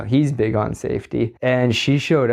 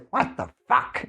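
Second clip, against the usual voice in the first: quieter cartoonish exasperation; safety guy voice; 5 dB quieter than usual. Worker doing his safety guy catchphrase at work, mock exasperation. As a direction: imitate the older safety boss's catchphrase. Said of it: "I do that voice at work".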